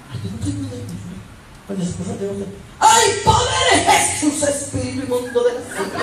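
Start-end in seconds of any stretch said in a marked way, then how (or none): 2.8-6.0 hammed-up horrified cry to heaven; mock religious outcry. Preacher mimicking a wife rebuking her husband, mock outcry.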